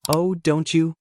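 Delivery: cutting, sarcastic jab; sharp, scornful retort; razor-sharp. Acted. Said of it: "Margaret's tone was razor-sharp".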